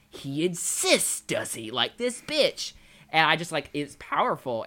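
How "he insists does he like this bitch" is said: mocking Dutch. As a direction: drag it out like Dutch scoffing at Arthur. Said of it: "Dutch just runs by and he just goes".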